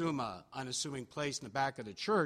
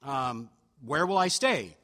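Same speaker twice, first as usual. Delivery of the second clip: a touch of eager Spurgeon; eager acceptance; 6 dB louder than usual. Retold or imitated. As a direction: sound thrilled to be invited. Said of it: "And Spurgeon said".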